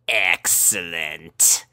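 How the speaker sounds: low, slow villainous purr; slow gloating cat voice; scheming cat. A narrator's reading. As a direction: savor it like a smug cat plotting. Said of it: "thought Opal".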